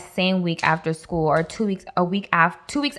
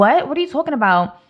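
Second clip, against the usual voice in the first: anxious; 6 semitones higher, faster than usual. Retold or imitated. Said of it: "anxious and you're like".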